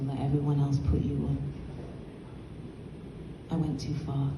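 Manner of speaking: measured confessional spoken-word reading with long pauses; low-key dramatic monologue, lines left to hang; performance monologue. Acted. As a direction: read it as a regretful confession to a lost lover, pausing between thoughts. Reads a performance monologue aloud.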